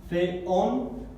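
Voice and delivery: feón in two parts, fe-ÓN, Spanish Z at the front; split into syllables. Shown as a demonstration. Teacher showing where the word divides, split into syllables. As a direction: sound out feón syllable by syllable, stressing the end. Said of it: "Tenemos una división aquí".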